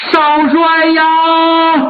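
long, drawn-out mourning wail; wailing cry. Acted. Mourner kneeling before Zongbao, wailing in grief. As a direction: stretch it into a grieving wail. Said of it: "哭得特别痛".

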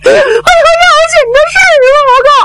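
high, fast, tearful rush; blurting urgent news through tears; Zhao Bi crying out. Acted. Zhao Bi begs to see the old lady, high and tearful.

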